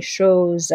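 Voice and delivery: chose said with a final E, sho-zuh; "chose" ending on an E like je; chose, E at the end pronounced for the rhythm; final E voiced. Shown as a demonstration. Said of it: "show you chose".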